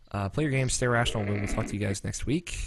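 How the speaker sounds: slightly tipsy, careful not to slur; tipsy sign-off, carefully not slurring. Real, not acted. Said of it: "I was really focused on not slurring my words".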